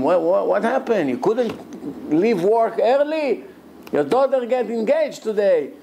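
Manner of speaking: family phoning the late father of the bride, worried; anxious phone call. Retold or imitated. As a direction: press him on why he's late. Family calling, worried and impatient.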